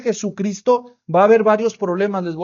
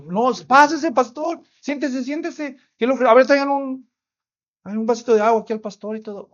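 higher, eager, fussing host offering a seat; friendly host; 4 semitones higher than usual. Retold or imitated. Husband urging the pastor to sit, mildly eager. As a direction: lightly play the welcoming husband. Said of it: "muy amable".

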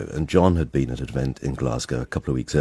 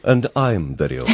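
laughing self-mockery; 4 semitones higher than usual. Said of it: "and Peter said".

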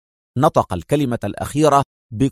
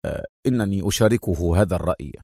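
respectful; 6 semitones lower, 5 dB quieter, faster than usual. Acted. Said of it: "في احترام".

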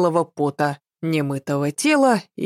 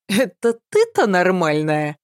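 mocking. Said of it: "спросила я насмешливо".

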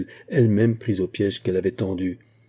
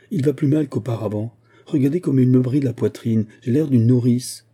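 sharp, louder scolding complaint; harsh angry words; 3 semitones higher, 4 dB louder than usual. Acted. Henriette scolds the shop girl over the coat, harsh and loud. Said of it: "elle éclata en paroles dures".

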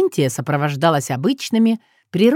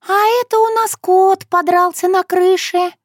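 high character voice, much higher; a distinct high figure explaining; Shushana voice; 13 semitones higher, 4 dB louder than usual. Acted. Shushana telling Sokolovsky about the fight, high.

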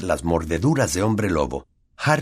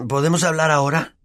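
grumpy; 9 semitones higher than usual. Acted. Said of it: "dijo Ron con mal humor".

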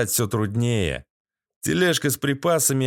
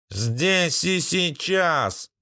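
slow, higher walking-corpse voice; drawn-out dead man; 4 semitones higher, much slower than usual. A narrator's reading. Dead American demanding payment on the spot, slow, raised, drawn-out voice. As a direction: stretch each word as an insistent dead man. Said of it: "Раздался гнусавый голос за спиной".

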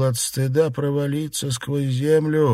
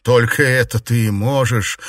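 cold smirk; 3 dB louder than usual. Acted. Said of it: "холодно усмехнувшись".

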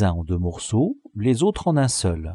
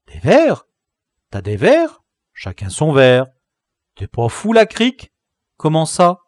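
put-on astonished boys; 5 semitones higher, 6 dB louder than usual. A narrator's reading. Boys stunned by the claim.

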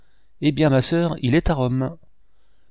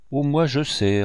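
a light, teasing hint of laughter; mild playful secret, half a giggle; mysterious and laughing; 6 semitones higher than usual. Niece teasing her uncle with a secret, lightly laughing. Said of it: "mystérieuse et riante".

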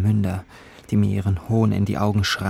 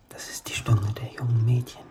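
soft, hushed recitation, lingering on words; dreamy poetic musing; 3 semitones higher, 6 dB quieter than usual. Acted. Young narrator addresses life as a poet, dreamy musing. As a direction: murmur it like a private poem.

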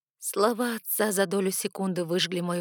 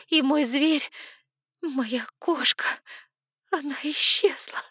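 higher, louder, desperate begging; tearful pleading; 6 semitones higher, 4 dB louder than usual. Acted. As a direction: beg your father to come, close to sobbing. Pleading to father, scared. (дочь сквозь слёзы умоляет отца, выше и громче)

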